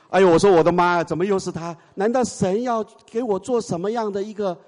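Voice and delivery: high, exasperated disbelief; dismayed exclamation. Retold or imitated. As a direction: groan at meeting him again.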